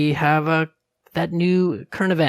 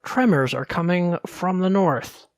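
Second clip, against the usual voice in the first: ominous announcement; 3 semitones higher than usual. Pretend. Teaser line before dramatic musical sting.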